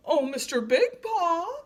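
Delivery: high, loud call to the lion. A narrator's reading. Trapped giraffe calling the lion over, high hopeful call. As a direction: hail him hopefully. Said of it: "he called to the lion".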